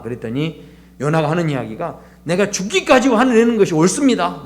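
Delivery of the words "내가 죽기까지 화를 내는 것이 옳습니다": higher-pitched retold indignation; mildly acted, defiant self-justification; angry retort. Jonah answering God back, in mock-angry protest. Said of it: "또 막 화를 냅니다".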